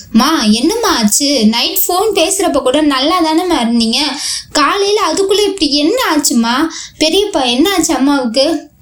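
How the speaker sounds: anxious, tearful questions; a grown son near tears, begging to know; tearful pleading. Acted. Son asks his bedridden mother, with a touch of tears. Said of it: "கண்களில் திரளாக நீர் பூக்க".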